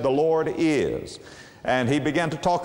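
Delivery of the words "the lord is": slow, halting on a drawn-out "is"; stop on IS. Retold or imitated. Preacher quoting a great preacher, stopping on "is". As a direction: stretch "is" and stop dead after it. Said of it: "he stopped right there".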